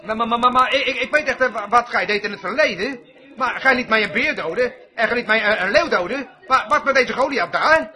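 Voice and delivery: stotterend, angstig gebed nagedaan; mock stotterend gejammer. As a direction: speel een bange twijfelaar die stamelt. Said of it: "riep hij nooit". (spottend nagedaan bang gebed)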